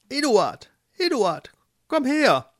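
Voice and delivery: high, urgent mole call. Acted. Mole calls Eduard over, urgent high shout. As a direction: summon a friend insistently.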